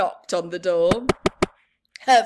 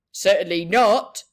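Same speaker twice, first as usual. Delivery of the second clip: firm refusal; 4 semitones lower, 8 dB louder than usual. Acted. Fireman refuses firmly.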